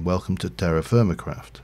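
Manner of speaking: "to" as a short "tuh" in "Welcome to"; slowed-down Yorkshire "to". Shown as a demonstration. Streamer breaking down the intro for viewers, short "to". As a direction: spell out "Welcome to" with a brief t sound. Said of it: "If I slowed it down, I would be saying".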